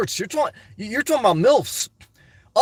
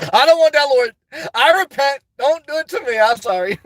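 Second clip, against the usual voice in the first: laughing mock plea; 5 semitones higher, 3 dB louder than usual.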